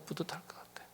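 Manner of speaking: whispered repeat. Real, not acted. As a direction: let it fade into a whisper. Echoed in a whisper.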